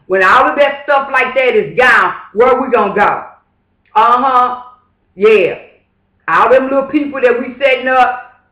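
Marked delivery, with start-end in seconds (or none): 0.1-3.2 raised voice demanding an answer; shouting. Real, not acted. Warning black people where they'll go without welfare, shouting. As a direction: call it out hard, almost yelling. Ranting about lost welfare.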